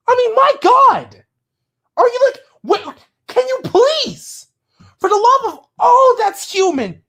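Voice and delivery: real tearful pleading; crying plea. Real, not acted. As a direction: beg him while crying. Pleading through tears.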